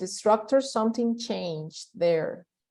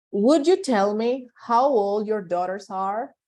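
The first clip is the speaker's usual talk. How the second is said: polite indirect ask. Shown as a demonstration. Teacher models polite asking for class. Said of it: "Listen to me again".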